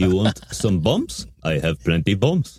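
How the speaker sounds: low, slow put-on foreign-sounding voice; imitated prisoner voice. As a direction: imitate a scheming foreign captive, low and deliberate. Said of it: "He talks like this".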